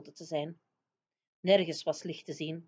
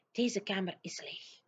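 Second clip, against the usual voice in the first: much softer giant voice; whispering; 6 dB quieter than usual. Acted. Giant telling Sophie the room is empty, hushed. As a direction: report it under your breath. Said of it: "fluisterde hij".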